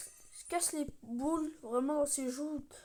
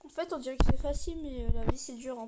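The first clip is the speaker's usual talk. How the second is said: louder annoyed complaint; frustrated gamer; 7 dB louder than usual. Real, not acted. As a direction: vent the frustration out loud. Frustrated at the game.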